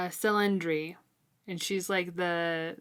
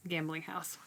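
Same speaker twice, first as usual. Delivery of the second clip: whisper; 9 dB quieter than usual. Real, not acted. Aside about the gambling house.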